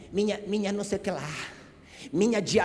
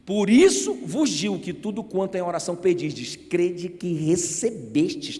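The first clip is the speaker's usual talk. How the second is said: solemn scripture reading; slower than usual. Shown as a demonstration. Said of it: "Ele diz".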